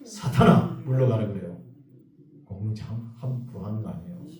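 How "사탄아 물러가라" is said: mock rebuke. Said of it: "누가 공동체 하자 그러면요".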